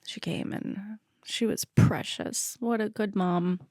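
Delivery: soft tearful voice with a catch; fighting back tears as you praise her; choked-up softness, fighting tears; teary, breaking up. Real, not acted. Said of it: "There's the speaker crying again".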